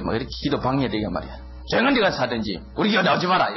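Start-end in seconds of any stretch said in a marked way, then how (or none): 1.7-3.5 mock scolding. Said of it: "이러고 막 그래 버리잖아요".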